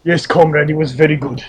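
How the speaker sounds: put-on a lightly done Russian accent on "comrade"; a hint of a jokey Russian accent; mock Russian accent. Co-host joining the bit as a Russian wrestler, light mock Russian accent. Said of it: "Russian accent".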